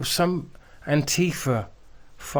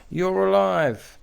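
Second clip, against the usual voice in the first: slow sarcastic mockery; 5 semitones higher, slower than usual. Mocking protester's words.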